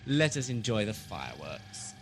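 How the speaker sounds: quiet menace. Acted. Keeper plotting destruction.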